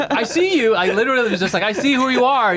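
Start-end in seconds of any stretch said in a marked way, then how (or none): 0.1-0.7 high, retold call-out; yelling facts. Storyteller yelling facts after the thief, high mock yell. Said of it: "continue yelling facts at him". 1.6-2.5 high-pitched mock holler; yelling facts. Storyteller yelling facts after the thief, high mock yell. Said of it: "continue yelling facts at him".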